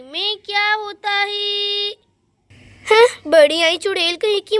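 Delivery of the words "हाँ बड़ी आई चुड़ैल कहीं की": a loud, scornful jab at a rival; angry jab. Acted. Jealous Meera fuming about her rival, angry and loud. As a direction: spit out the insult in mock anger. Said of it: "मुझे उस पर बहुत ही ज्यादा गुस्सा आ रहा है".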